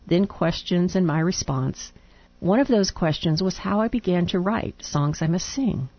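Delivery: reading a letter aloud. Real, not acted.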